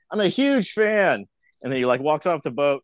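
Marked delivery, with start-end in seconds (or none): 0.1-1.2 high, slow starstruck gush; gushing fan. Retold or imitated. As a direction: imitate a fan melting over his idol. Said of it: "And the guy's like".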